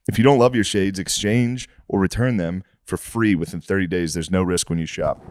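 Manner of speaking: podcast host's sponsor read. Acted. Host pitching Shady Rays shades to listeners, ad read. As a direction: read out the sponsor copy with steady sales polish.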